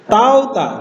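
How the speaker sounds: tauta, said with a clear fall; Greek pronunciation. Shown as a demonstration. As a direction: sound out tauta slowly. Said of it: "Ini dibaca".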